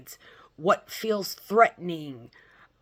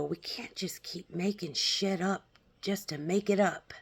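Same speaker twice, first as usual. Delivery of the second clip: whisper; 5 dB quieter than usual. Real, not acted. Aside dropped to a whisper.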